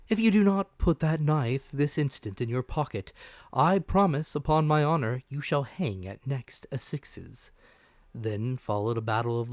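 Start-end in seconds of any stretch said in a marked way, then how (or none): 0.1-7.5 raised and carrying, yet perfectly calm; a firm, steady warning pitched for the whole room to hear; calm, high, steady doctor. Acted. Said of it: "perfectly calm and steady".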